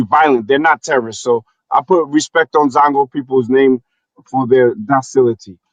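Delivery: put-on West African accent. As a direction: speak in a Nigerian-sounding West African accent. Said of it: "How was my West African accent?".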